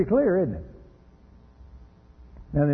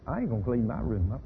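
put-on sassy little girl; 4 dB quieter than usual. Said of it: "the little girl turns to you and says".

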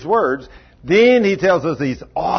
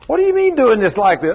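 mock gruff scolding; 7 semitones higher, 3 dB louder, faster than usual. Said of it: "like I talk to the guys".

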